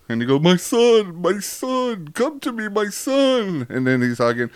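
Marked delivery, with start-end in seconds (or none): 0.4-3.7 much higher, an overjoyed father calling; hammed-up high voice of a father greeting his son; welcoming father. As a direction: call him home with arms wide open.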